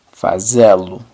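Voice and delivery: fazê-lo as fa-ZE-lu, closed ê stressed, falling; Portuguese fazê-lo. Shown as a demonstration. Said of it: "se escribe con un guión".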